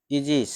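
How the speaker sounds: ईजिस said as ee-jis; teacher's model word. Shown as a demonstration. Teacher models ईजिस for students, ee-jis. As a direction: say ईजिस with a long ee. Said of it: "शब्द का उच्चारण ए ये है ना".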